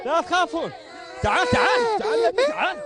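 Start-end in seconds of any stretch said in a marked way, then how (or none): 1.2-2.8 higher calling voice, beckoning across the room. Real, not acted. Soldier calling a frightened son over to him, raised calling voice.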